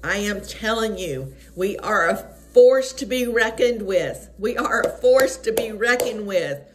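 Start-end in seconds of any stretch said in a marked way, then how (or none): 1.5-6.6 emphatic, declaring sermon delivery; rousing preaching. Real, not acted. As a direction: preach it as a rallying call to believers.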